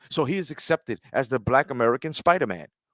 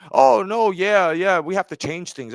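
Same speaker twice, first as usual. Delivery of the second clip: higher, louder mock insistence, easing off; mock studio excuse; 5 semitones higher, 4 dB louder than usual. Fan mimicking studios that change things, mocking. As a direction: imitate a fussy executive, starting high.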